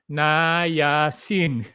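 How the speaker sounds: Niacin said slowly in three beats; counting out the syllables; syllables spelled out. Shown as a demonstration. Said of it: "Three syllables".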